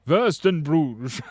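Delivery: loud, slow German accent; drawn-out mock-German pronunciation. Shown as a demonstration. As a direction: belt it out like a German. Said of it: "saying it like a German".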